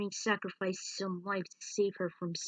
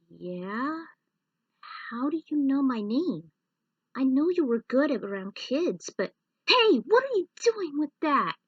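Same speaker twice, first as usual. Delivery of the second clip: higher and louder, rising to a sharp outburst; startled and suspicious kid; alarmed boy; 6 semitones higher, 8 dB louder than usual. Acted. Clank confronting the robot holding his locket, loud and alarmed.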